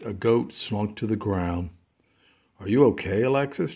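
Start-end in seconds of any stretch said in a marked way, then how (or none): 2.6-3.7 chirpy. Acted. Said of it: "chirped Ethan".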